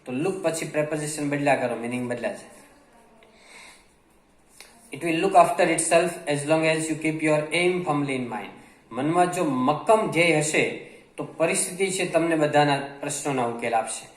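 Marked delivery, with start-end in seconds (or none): 4.9-8.5 reads the English line very slowly, word by word; slow dictation reading. Acted. Teacher reading a passage slowly to Gujarati learners. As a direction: spell it out slowly for the students.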